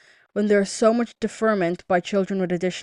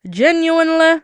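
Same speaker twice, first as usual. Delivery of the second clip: high-pitched; 9 semitones higher, 9 dB louder than usual. Real, not acted. Repeats the word higher and louder.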